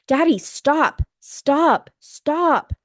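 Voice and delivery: high, loud repeated screams, retold. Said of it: "We scream louder".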